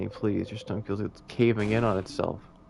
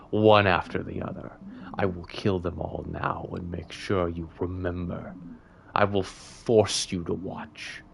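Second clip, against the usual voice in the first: murderous king; 4 semitones lower, slower than usual. Acted. The king threatens to kill the party, slow and menacing. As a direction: linger over every threat.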